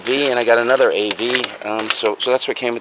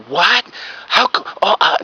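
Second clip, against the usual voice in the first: high-pitched mock outraged sputter; livid wife yelling; 10 semitones higher than usual. Wife livid at her husband over the deal, mock high-pitched yelling. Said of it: "She was yelling at him".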